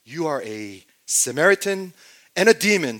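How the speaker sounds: loud, accusing retort; firing back. Retold or imitated. Leaders firing back at Jesus with a loud insult. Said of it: "they fire back".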